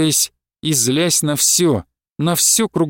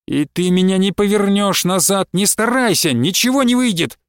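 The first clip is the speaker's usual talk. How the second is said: mild angry shout; 4 semitones higher than usual. Acted. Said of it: "кричал он".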